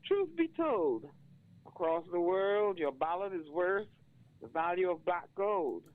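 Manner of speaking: spoken-word poem, rising in force at the close; poem recitation. Acted. Reads his poem aloud.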